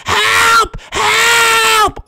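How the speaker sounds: high-pitched captive cry for help; high squeaky Toad voice. Acted. Captured Toad cries for help.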